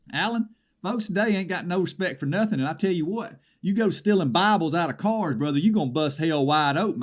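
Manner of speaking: fire-and-brimstone about the Bible thief; indignant rant. Acted. Caller to Alan railing at the thief, hammed-up outrage.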